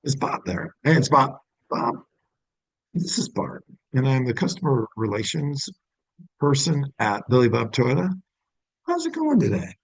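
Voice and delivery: cold, first-call phone greeting; phone greeting demo. Shown as a demonstration. Dealership rep calling a customer for the first time, polite phone greeting. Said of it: "when you would use that".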